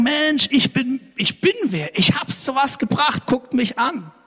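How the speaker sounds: high-pitched, self-important showing off; mock boasting. Preacher mimics someone showing everyone his titles, mock boastful.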